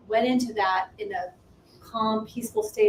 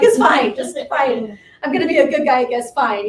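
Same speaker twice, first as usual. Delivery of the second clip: louder exasperated caving; frustrated; 2 semitones higher, 8 dB louder than usual. Retold or imitated. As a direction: give in with loud frustration. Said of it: "he was so frustrated".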